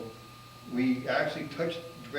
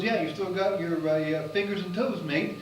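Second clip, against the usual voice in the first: joking British scientist; 5 semitones higher than usual. Retold or imitated. Scientist explains frostbite jokingly.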